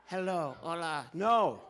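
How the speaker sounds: ordinary talk, nothing marked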